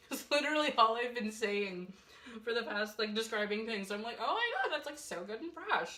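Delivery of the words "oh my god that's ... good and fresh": gushing beauty-vlogger voice, much higher; mock gushing influencer; James Charles impression. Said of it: "too many James Charles videos".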